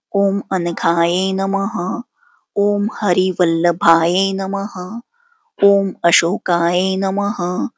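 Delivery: steady, even devotional chanting of each name; mantra recitation. Acted. Host leading viewers through Lakshmi's hundred and eight names, steady devotional chant. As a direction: intone every name like a prayer offering.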